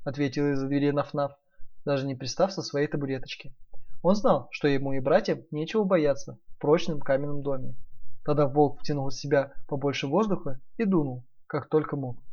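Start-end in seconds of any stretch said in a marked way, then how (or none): none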